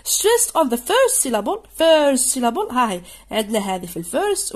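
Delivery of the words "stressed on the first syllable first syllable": slow, louder, lift on first; slow heading read. Shown as a demonstration. Teacher reading the column heading to pupils, slow and louder. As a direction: read the heading slowly and clearly. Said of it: "reading heading to class".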